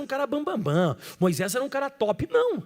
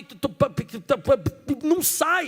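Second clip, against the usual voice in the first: stutter demo; slower than usual. Shown as a demonstration. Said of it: "pessoa que vai começar a falar que".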